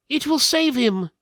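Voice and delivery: high, loud, ominous steward voice; steward speaking darkly. A narrator's reading. The royal steward warning of the cost, high and grave. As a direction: raise it high and heavy with dread. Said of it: "the steward said darkly".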